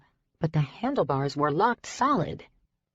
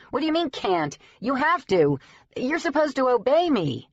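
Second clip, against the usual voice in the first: indignant demand; 8 semitones higher than usual. Acted. Rider scolding the disobedient mirror, indignant and higher. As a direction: insist it has to obey you.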